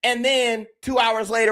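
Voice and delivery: ordinary talk, nothing marked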